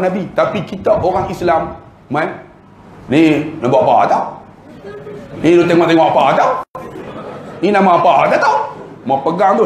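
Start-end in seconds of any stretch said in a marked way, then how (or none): 3.1-8.6 mocking rude clerk. Ejek pegawai Muslim yang kasar.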